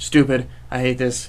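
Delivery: plain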